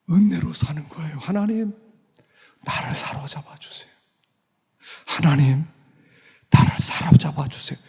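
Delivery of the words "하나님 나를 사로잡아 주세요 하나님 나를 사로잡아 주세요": breathy, restrained plea to God; earnest prayer. Shown as a demonstration. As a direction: pray simply and intently. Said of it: "이게 기도예요".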